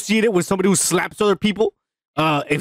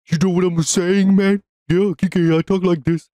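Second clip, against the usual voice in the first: Grace Randolph impression. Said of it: "that's my best Grace Randolph".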